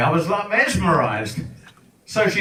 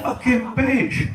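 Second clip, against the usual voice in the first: slow bitter aside; 7 semitones higher, slower than usual. Real, not acted. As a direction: drag out a slow, spiteful curse. Muttered aside after insult.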